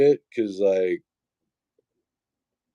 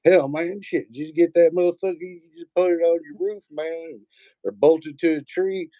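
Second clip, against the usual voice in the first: mock redneck buddy; 7 semitones higher than usual. Imitating his buddy asking about the satellite dish, high and excited. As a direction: ham up the neighbor's surprise. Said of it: "dude, like".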